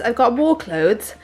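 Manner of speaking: accidental British accent; lightly put-on British accent. Real, not acted. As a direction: slip into British vowels. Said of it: "I need to stop with the British accent".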